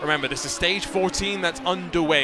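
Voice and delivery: brisk commentator call, lifted and driving; live race play-by-play. Acted. Commentator calling the race start to viewers, brisk play-by-play.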